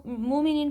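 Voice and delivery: مومنین said as a smooth long moo with no glottal stop; the incorrect reading without a hamza jerk; wrong reading. Shown as a demonstration. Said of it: "تو یہ غلط ہے".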